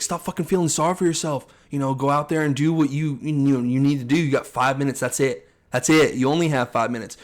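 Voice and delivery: fired-up coach. Retold or imitated. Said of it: "he's like".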